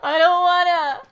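frightened whine. Real, not acted. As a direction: whine it like you're about to cry. Scared gamer in horror game.

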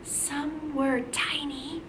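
slow, hushed whisper. Shown as a demonstration. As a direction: whisper it as if tiny. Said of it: "We gotta whisper that part".

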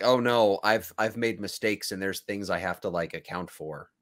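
quiet, lightly regretful mumbling; mock regret. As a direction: own up softly, with a touch of regret. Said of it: "like this regret about".

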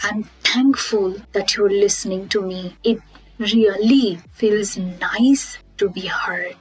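even, sincere thanks in a settled voice; composed gratitude. Shown as a demonstration. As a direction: say it plainly and gratefully, slowing at the end. Models the grateful alternative.

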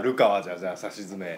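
"じゃ、じゃあ" said as an accidental stutter; stumbling over words. Real, not acted. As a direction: trip over "じゃ、じゃあ", doubling it. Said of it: "ちょっと噛みながら言うな".

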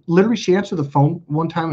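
ordinary delivery

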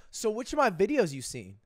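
mock-pompous question, lightly voiced. Ludwig mocking a pompous YouTuber, smug. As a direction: play it smug and self-important. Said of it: "you go up all pompous".

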